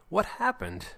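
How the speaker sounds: high-pitched confused question; startled bewilderment. Acted. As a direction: blurt it as if jolted awake. Jeremy comes to after slap.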